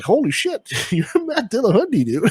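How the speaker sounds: high, excited fan gush; laughing fanboy disbelief; starstruck. Retold or imitated. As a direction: gush like a starstruck fan meeting his hero. Meeting a famous atheist, starstruck.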